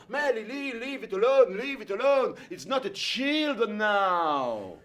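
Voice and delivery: le père glisse à l'anglais, posé; père parlant anglais. Retold or imitated. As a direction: calme la mère en anglais. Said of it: "il parle toujours en anglais à ma mère". (le père parle anglais à la mère pour que le fils ne comprenne pas)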